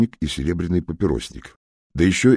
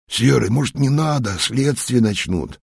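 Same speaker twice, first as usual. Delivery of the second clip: nervous plea; 8 semitones higher than usual. Acted. Nervous thug pleads with leader.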